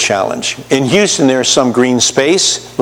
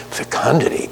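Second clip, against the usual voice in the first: "Fecundity" breathed softly, tasting the word; savored whisper; 6 dB quieter than usual. Pretend. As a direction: whisper "Fecundity" like a treasured discovery. Congregation savoring the new word.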